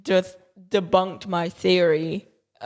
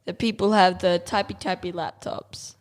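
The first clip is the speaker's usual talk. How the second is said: tech snob voice. Acted. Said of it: "That was my tech snob voice".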